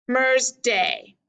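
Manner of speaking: "Mer's day" as one foot, DAY held; second syllable stressed. Shown as a demonstration. Teacher marking stresses, weight on "day". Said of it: "highlight the one we're going to stress".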